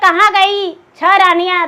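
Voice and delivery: ordinary talk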